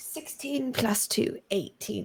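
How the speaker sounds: sneaky, voiced, hushed stage whisper. Tabletop player reporting a dice roll to the game master, half-whispering. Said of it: "I don't know why I'm whispering to the D M".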